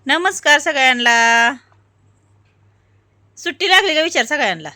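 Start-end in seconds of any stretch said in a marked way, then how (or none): 0.1-1.5 slow greeting again. Shown as a demonstration. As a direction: repeat the greeting slowly as an example. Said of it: "म्हण की, म्हण की".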